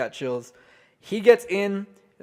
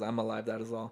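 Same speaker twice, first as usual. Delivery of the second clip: soft quote; 4 semitones lower, 10 dB quieter than usual. Retold or imitated. Quoting wrestler's soft words.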